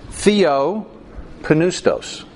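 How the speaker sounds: "Theopneustos" said very slowly as thee-op-NOOS-tos; Greek word pronounced. Shown as a demonstration. Preacher slowly pronouncing "Theopneustos" for the congregation. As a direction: spell out "Theopneustos" syllable by syllable, slowly. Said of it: "translation of one Greek word".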